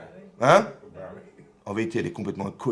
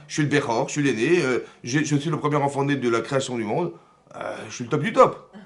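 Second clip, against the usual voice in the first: somewhat raised, emphatic self-importance; indignant boasting; 3 semitones higher, 4 dB louder than usual. Acted. Cain boasting he is the firstborn, emphatic and indignant. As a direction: list your credentials in protest.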